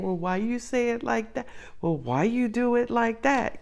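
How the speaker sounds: soft, hurt little complaint, hammed-up; mock oversensitive. Reader mocks her own emotional nitpicking, mock-hurt softness. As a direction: imitate yourself being touchy, with softened voice. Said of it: "when I get so emotional".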